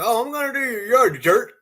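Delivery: high, snide mock rudeness; mocking a rude yard worker; rude mock insult. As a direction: sneer it like a rude jerk.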